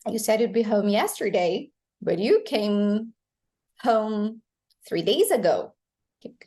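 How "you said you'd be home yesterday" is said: "yesterday" emphasized as the sentence's last word; teacher's model sentence, landing on "yesterday"; stress on final word. Shown as a demonstration. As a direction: put the weight on "yesterday". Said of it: "emphasizing the final word".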